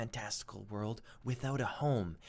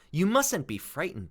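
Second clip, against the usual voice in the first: kindly; 7 dB louder than usual. Acted. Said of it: "the ladybug said kindly".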